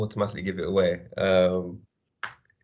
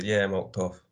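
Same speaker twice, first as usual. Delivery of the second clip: Jamaican patois. Shown as a demonstration. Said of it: "you say".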